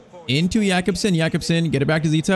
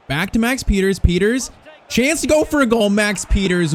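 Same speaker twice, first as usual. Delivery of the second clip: excited build-up; 5 semitones higher than usual. Real, not acted. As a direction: call the run like it's about to score. Counterattack chance on goal.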